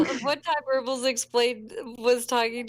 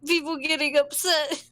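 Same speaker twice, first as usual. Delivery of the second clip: mildly anxious, unsure inner monologue; anxious, awkward; 4 semitones higher than usual. Retold or imitated. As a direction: replay your own nervous helplessness. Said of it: "sitting there with anxiety".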